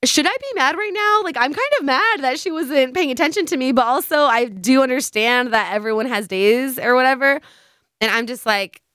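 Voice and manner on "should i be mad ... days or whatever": higher mock-puzzled voice, half annoyed; thinking aloud, torn between mad and understanding; confused and unsure. Friend on the way home wondering if she should be mad, lightly imitated confusion. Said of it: "like, confused".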